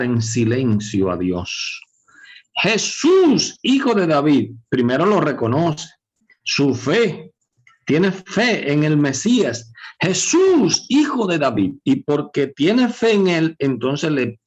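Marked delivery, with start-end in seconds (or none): 2.6-4.5 high, ringing mock call; imitated cry. Preacher voices the blind man calling Jesus, high imitated cry. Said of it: "Empezó a gritar. ¿Y qué gritaba?". 10.0-11.7 high, ringing mock call; imitated cry. Preacher voices the blind man calling Jesus, high imitated cry. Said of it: "Empezó a gritar".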